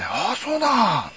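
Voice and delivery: mock the cop who turned meek; fawning cop. Retelling how the cop turned meek, slow fawning. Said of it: "急に腰低くなっちゃって".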